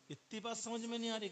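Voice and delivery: high, loud scolding friend's voice; a friend scolding a girl for her slowness, high and loud. Retold or imitated.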